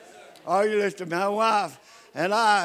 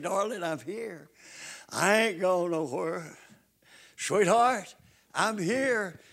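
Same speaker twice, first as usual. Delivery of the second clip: soft, tender reassurance to a sick wife; a husband's soft comfort; tender murmur; 2 semitones lower, 4 dB quieter than usual. Retold or imitated. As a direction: gently soothe her, softer.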